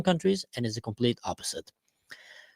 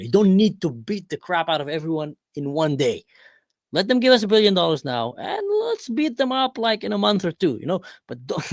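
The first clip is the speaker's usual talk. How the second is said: cajole an ally to hold off; Saudi Arabia to Israel; 5 semitones higher than usual. Acted. Saudi Arabia coaxing Israel to pause, higher hammed-up pleading. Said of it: "Saudi Arabia jumps in".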